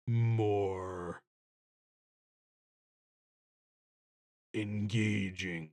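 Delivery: slow, low, drawn-out delivery; hammed-up engaging voice. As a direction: stretch each word out, low and slow.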